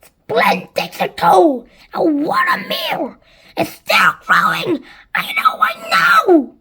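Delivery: loud, swooping excited squawks; crying out. A narrator's reading. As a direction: cry out in rapture, pitch leaping about. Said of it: "Anne Sponge cried out".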